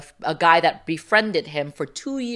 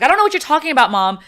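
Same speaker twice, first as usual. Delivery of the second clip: playing innocent; 10 semitones higher, 7 dB louder, much faster than usual. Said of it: "I was like".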